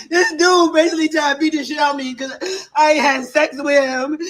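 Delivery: real distress, voice catching; tearful account of the fight; choked-up complaint, slowed in places; upset, near tears. Real, not acted. Woman upset after being hit.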